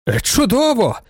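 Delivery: high delighted exclamation; an old count's sudden delight; exclaiming. A narrator's reading. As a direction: burst out pleased, pitch jumping up. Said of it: "вигукнув сутулуватий граф".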